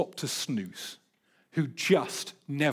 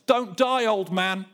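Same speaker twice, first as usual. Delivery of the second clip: raised, jeering call; mocking; 3 semitones higher, 4 dB louder, slower than usual. Sideline crowd heckling an old runner, mocking. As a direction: call it out in mockery, play-acted. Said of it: "People are mocking him from the sidelines".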